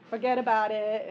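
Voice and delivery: loud, hammed-up Brooklyn accent; a quick jokey New York accent. Shown as a demonstration. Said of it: "feign a Brooklyn accent".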